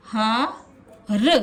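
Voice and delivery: हार with the आ held very long; long vowel drawn out. Shown as a demonstration. Teacher showing pupils the long vowel. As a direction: stretch the आ in हार slowly. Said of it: "उसको थोड़ा देर तक बोलेंगे".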